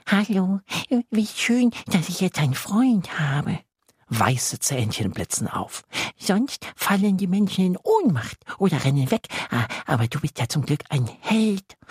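high, eager little creature voice; a tiny monster thrilled to have a friend; little lake monster. Acted. Tiny lake monster greets Yassin, high and delighted.

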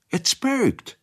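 high, frightened dialect voice; scared maid. A narrator's reading. The maid Male tells Ratschek it's haunted, high and scared. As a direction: shrink back from the haunted cellar.

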